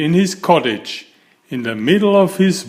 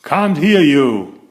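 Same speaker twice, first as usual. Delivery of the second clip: mild thunder; 3 dB louder than usual. Acted. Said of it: "thundered the grocer".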